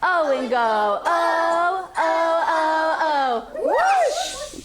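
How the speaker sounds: sporty chant ending in a high whoosh; like a basketball player. Pretend. Teacher chanting like a basketball player, ending whoosh. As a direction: chant it like a player shooting hoops. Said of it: "say it like a basketball player".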